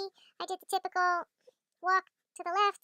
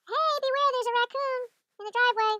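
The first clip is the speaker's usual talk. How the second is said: raised, higher calling voice; yelled warning; 5 semitones higher, 4 dB louder than usual. Retold or imitated. Yelling up to the neighbor about a raccoon, raised warning call. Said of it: "I yell up to the neighbor".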